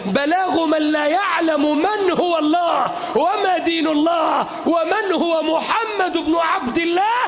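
fiery shouted sermon; soapbox orator. Acted. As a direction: preach it with full force to a crowd.

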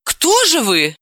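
a touch of stunned surprise; taken aback. Acted. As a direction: ask in mild bewilderment. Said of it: "оторопело спросила Далила".

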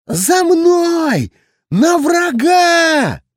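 high, strained shout, pitched far up; strangled battle cry. A narrator's reading. Captain leading the doomed charge, strangled shout. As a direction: yell the charge, throat tight. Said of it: "задушенно воскликнул".

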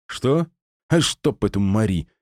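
sudden angry outburst; flaring up. Acted. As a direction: snap out in irritation. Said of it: "вспылил Гера".

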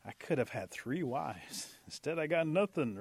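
drawn-out, aggrieved grumble; grumbling. Acted. Possum leaving town with no wife, grumbling. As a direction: grumble over every lost chance. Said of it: "starting to grumble even more".

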